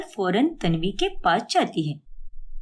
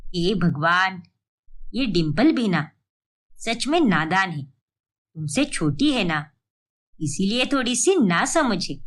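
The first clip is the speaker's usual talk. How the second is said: lower-pitched caring mother-in-law; 6 semitones lower than usual. Acted. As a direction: ask like a concerned elderly saas, voice dropped low. Mother-in-law excuses Dimple. (चिंतित सास की नीची आवाज़)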